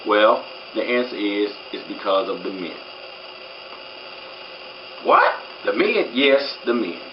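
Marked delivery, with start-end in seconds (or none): 5.0-6.1 shoots way up high on a startled "What?"; mock disbelief. To the fellas, voicing their shocked reaction with mock disbelief. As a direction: play the shocked listener who can't believe it.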